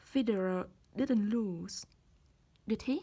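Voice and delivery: "did he?" rising as a real question; rising tag. Shown as a demonstration. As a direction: slowly ask "Federer didn't lose, did he?" with "did he?" going up. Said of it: "muốn biết cái kết quả".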